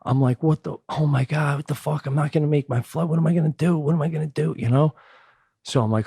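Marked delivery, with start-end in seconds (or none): 0.4-4.9 panicked rant. Retold or imitated. Panicking on the roadside.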